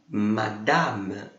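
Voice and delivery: "madame." with both A's said wide open; teacher models the open A in "madame." for the class. Shown as a demonstration. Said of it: "Bem aberto".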